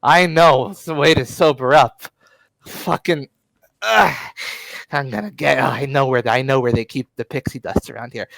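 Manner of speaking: loud sneering comeback; loud scornful hustler; mocking schemer. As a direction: taunt him, then rush off. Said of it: "just snorts and just says".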